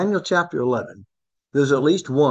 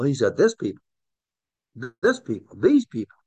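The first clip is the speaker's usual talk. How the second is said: "this" and "these" given clear weight, "these" raised; stress on this. Shown as a demonstration. Teacher stressing that Jesus said this people, weighting "these". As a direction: hammer the "this" and "these". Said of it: "Jesus didn't say that people".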